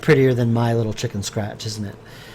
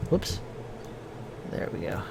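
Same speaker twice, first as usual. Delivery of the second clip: talking through hiccups; hiccuping between words; 6 semitones lower, 15 dB quieter than usual. Real, not acted. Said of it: "I'm hiccuping like crazy".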